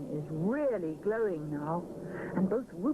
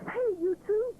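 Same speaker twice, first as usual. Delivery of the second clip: higher, louder call across the common; 13 semitones higher, 4 dB louder than usual. Acted. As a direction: shout up to the friends below. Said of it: "he shouts".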